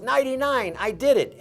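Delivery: triumphant shout. Retold or imitated. Winning roll, crowd goes wild.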